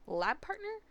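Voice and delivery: high incredulous question; surprised. Acted. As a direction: correct him in disbelief. Delilah correcting, surprised.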